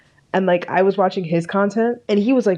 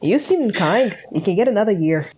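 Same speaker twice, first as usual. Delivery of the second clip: a light, playful hint of a Canadian accent, pitched up; mock Canadian accent; 3 semitones higher than usual. Joking to her co-host, a faint mock Canadian accent. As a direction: lightly put on Canadian accent, barely there. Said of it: "That's my Canadian accent".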